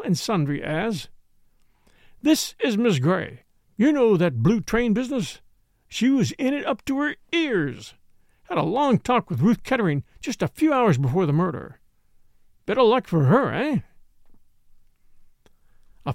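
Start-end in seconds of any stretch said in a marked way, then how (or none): 2.2-13.8 lightly voiced eager gossip; gushing socialite introducer. Chubby introducing Catherine to all and sundry, lightly voiced gusto. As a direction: show off your guest with lively delight.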